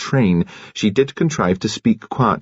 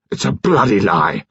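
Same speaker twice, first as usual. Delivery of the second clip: bawled. A narrator's reading. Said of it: "George Lacklander bawled out".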